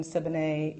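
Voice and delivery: Siboney said as sib-uh-NAY; mispronounced name. Retold or imitated. Listing wrong names people call her, Siboney as sib-uh-NAY. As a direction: misread Siobhan as Siboney, ending in nay. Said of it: "so I get called".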